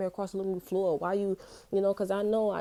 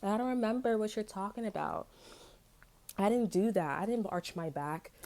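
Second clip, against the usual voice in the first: mock innocent denial. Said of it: "I'm talking on the train".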